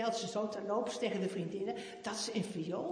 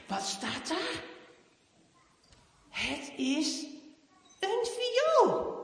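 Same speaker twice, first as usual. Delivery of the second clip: usual speaking voice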